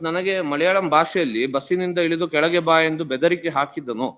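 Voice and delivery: brisk read-out of a written complaint; reading aloud. Real, not acted. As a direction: read the statement into the record, quickly. Reads the complaint aloud in court.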